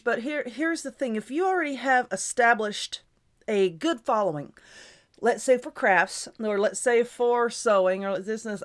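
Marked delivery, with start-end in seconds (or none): 5.2-8.6 hiccups breaking the voice; stifling hiccups. Real, not acted. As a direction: talk while holding back hiccups. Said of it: "I have the hiccups, so if my voice is changing".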